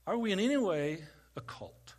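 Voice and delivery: whispered question, no voice at all. Shown as a demonstration. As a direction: breathe it to them like a secret. Asks same question twice.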